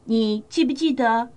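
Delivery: put-on gentle storyteller moral to kids; reading to children. Storyteller gives children the moral, gently.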